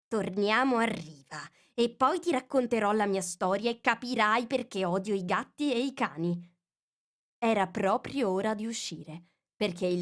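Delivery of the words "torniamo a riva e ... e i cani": ordinary delivery, nothing marked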